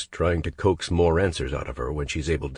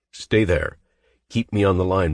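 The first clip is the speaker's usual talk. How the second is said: louder, firm and urgent; urgent command; 4 semitones higher, 5 dB louder than usual. Acted. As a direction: order her to stay put. Hero urgent command on phone.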